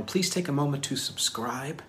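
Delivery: "subscribe" lifted at the end; odd lilt on subscribe. Real, not acted. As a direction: pitch climbing into "subscribe". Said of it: "why I said it like that".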